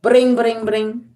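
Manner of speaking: high, sing-song "Bring, bring, bring" like a ringing phone; phone ring imitation. Call from the cell goes unanswered, mimicked ringing.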